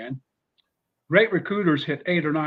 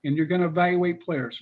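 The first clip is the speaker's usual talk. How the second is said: moderately higher instructions; a lightly pitched-up coach giving orders; Spurrier impression; 4 semitones higher than usual. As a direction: coach assigning film duty, a little higher. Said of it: "he said".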